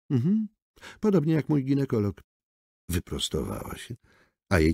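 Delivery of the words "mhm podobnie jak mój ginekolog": sardonic. A narrator's reading. Chyłka's sardonic retort.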